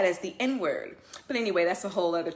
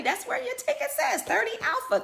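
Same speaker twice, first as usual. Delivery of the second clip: emphatic rant. Real, not acted.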